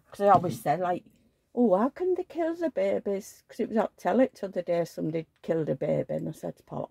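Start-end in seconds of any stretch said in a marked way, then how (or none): 1.5-3.4 retold dismay. Quotes own past horror at news.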